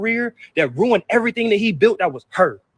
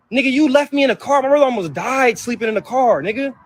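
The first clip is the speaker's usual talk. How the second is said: raised pitch, aggrieved; heated anger; 5 semitones higher than usual. Real, not acted. Son angry at his mother, raised and aggrieved.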